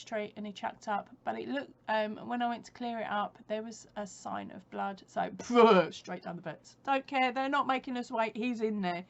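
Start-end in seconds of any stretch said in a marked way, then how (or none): 5.4-5.9 loud, short burst of mouth noise; a sudden loud "brrr" for speed; imitated whoosh. Shown as a demonstration. Telling viewers of the dash to the vets, imitated whoosh.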